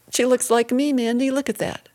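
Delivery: high-pitched, delighted marveling; chuckling delight. A narrator's reading. Aunt admiring the newborn beside the mother, chuckling delight. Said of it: "She chuckled".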